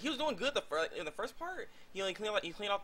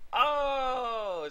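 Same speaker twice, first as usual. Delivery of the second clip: mock shocked oh; 9 semitones higher, 7 dB louder than usual. Both realise together.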